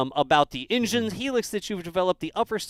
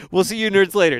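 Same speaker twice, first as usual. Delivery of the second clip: louder, cheerful we'll see you nerds later; loud sign-off; 2 semitones higher, 7 dB louder than usual. Real, not acted. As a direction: call the goodbye out to the crowd. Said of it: "you can wave if you want".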